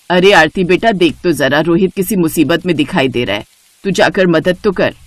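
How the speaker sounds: mother-in-law urging Aarti to check on Rohit; urgent mother-in-law. Acted. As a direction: send her off to help. Shobha urges Aarti to help.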